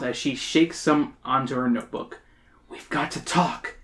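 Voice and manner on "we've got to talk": soft, slow, hushed urging; whispering. Acted. Emily confiding in the fly, hushed. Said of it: "Emily whispers".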